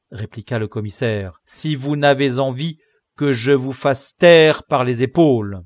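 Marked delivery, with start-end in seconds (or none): 1.5-5.6 stern threat. Acted. Commissaire threatens the convict.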